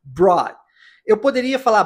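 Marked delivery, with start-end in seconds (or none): 0.0-0.6 "brought" said simply as "braw"; "brought" with no final T; silent final T. Shown as a demonstration. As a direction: drop the T off "brought", voice falling on the open vowel. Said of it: "Simples assim".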